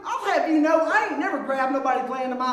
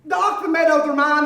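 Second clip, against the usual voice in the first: raised voice, insisting; shouting; 4 dB louder than usual. Acted. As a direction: shout the claim stubbornly. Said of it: "quit your shouting".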